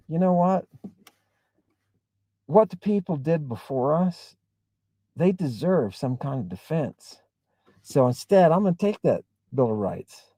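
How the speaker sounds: level-headed appeal; calm reasoned. Shown as a demonstration. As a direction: talk them down with reason. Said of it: "Or we can say".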